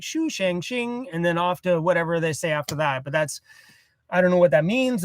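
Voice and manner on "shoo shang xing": imitating the caller's opening, slow; mock foreign caller. Imitating how the strange phone calls begin, slow. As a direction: slowly parrot the caller's first syllables. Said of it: "it starts with this, like".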